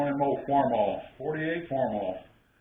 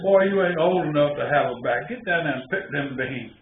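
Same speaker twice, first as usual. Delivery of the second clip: a hint of a gruff grandpa, louder at the start; mock-stern old man telling a boy off; grandpa scolding; 5 dB louder than usual. Grandpa telling the boy to get back to picking, mildly gruff.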